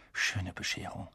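low-key, softly spoken dismay; soft, subdued remark; quiet. A narrator's reading. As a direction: say it well under your voice. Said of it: "sagte Harry leise".

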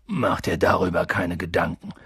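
low, deep giant voice; Hagrid, reassuring. Acted. Giant reassuring the boy about money, low. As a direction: wave the worry away, low.

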